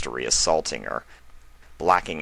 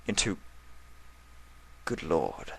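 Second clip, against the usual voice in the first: stunned realization; 12 dB quieter than usual. A narrator's reading. Stallion realizes in shock.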